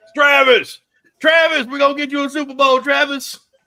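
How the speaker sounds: very loud, high-pitched calling out. Joking about Super Bowl chances in a group chat: good Deion impression. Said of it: "That was actually a good Dion impression".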